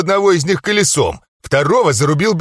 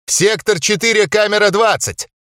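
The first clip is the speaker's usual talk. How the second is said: high shout with a note of despair; desperate shout; 7 semitones higher than usual. A narrator's reading. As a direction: yell the order, close to panic. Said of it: "крикнул усатый с нотками отчаяния в голосе".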